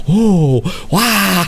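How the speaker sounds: playful imitated martial-arts yelps; mock karate cries. Host imitating Murray's sudden karate outburst, mock karate cries. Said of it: "And he was like".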